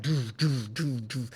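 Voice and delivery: soft pulsing "doo" sounds; repeated "doo" sound effect; imitated shooting. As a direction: voice bursts being fired in. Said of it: "as if they were shooting it".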